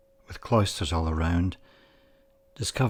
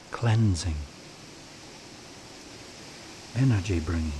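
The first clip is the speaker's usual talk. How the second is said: calm meditation guide with long pauses between phrases; guided meditation; 6 dB quieter than usual. Acted. Meditation leader has listeners picture flowing water, calm guided delivery.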